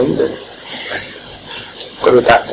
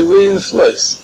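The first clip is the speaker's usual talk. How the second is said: a higher, half-hearted cry of "We're in the floors"; mock outcry; 6 semitones higher than usual. People pounding on the table, crying to God, in a mild mock outcry. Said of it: "pounding on the table and say".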